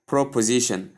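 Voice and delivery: "proposition" with "pro" in place of "prep"; others' mispronunciation. Shown as a demonstration. Teacher quoting another common error, "proposition" said with "pro". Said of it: "Some other people also call it".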